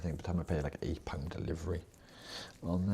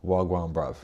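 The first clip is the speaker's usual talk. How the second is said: put-on south London accent; 10 dB louder than usual. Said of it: "they'd be like".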